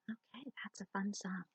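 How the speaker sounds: soft whispered aside. Real, not acted. Teacher whispering after the song.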